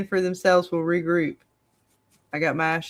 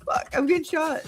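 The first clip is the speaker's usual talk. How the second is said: hyperventilating; 12 semitones higher than usual. Real, not acted. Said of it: "I, I am panicking".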